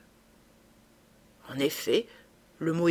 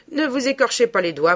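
raised, loud taunt; ricaneur; 5 semitones higher, 6 dB louder than usual. A narrator's reading. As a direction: jeer at a trapped opponent. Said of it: "Bridoux ricana". (raillerie narquoise, voix montée)

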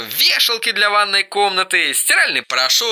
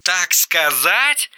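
mocking echo; much slower than usual. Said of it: "заголосил Эрик хриплым".

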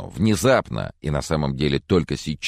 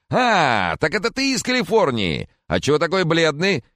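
put-on higher, louder chatty old gentleman; fussy old Mr. Corcoran, higher and louder; jolly old man; 13 semitones higher, 4 dB louder than usual. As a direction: play the doting old neighbour, up high.

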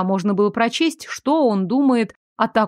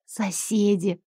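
much softer, hushed whisper; 6 dB quieter, slower than usual. A narrator's reading. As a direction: whisper it to the cat. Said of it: "шёпотом просветила я". (шёпотом)

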